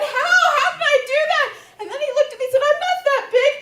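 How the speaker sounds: a flustered man protesting; lightly voiced baffled boyfriend; confused boyfriend.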